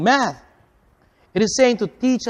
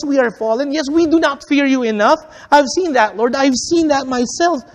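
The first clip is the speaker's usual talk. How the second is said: Moses' plea, pitched up and earnest; pleading prayer; 4 semitones higher than usual. Acted. Preacher voicing Moses, a lightly pitched-up earnest plea. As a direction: voice Moses begging God to return.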